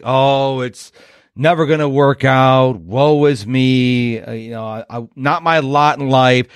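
lightly voiced gloomy donkey, low and droopy; a hint of Eeyore moaning. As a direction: mope like a sad cartoon donkey. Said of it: "they're like Eeyore in Winnie the Pooh".

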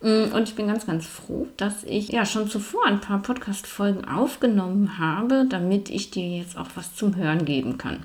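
mumbling through a wired jaw; talking with the teeth clamped together; jaw wired shut. Real, not acted. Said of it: "warum ich jetzt so ein bisschen nuschelig klinge". (mit verdrahtetem Kiefer genuschelt)

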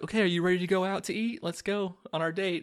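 high, rapid mock-female voice; quick high-pitched impression of a pushy date; imitating movie girlfriend. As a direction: rattle it off in a girly falsetto. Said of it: "then she's like".

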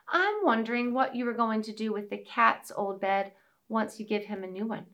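a hint of a small mouse; lightly voiced little mouse; tiny squeaky critter. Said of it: "said the little mouse".

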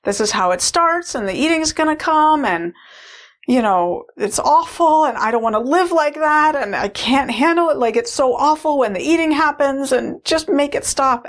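put-on high, frantic child pleading to make it stop; retold hysterical inner child; hysterical little girl. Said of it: "She was, like, hysterical".

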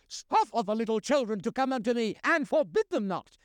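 firm, stern rebuke with a hard stress on "forbid". Shown as a demonstration. Jesus rebukes his own disciples, stern and forceful. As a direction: scold the disciples for blocking the children. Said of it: "It was a rebuke".

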